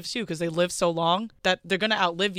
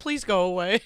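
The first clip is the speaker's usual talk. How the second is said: polite request. Retold or imitated. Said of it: "asking the dog to go away politely".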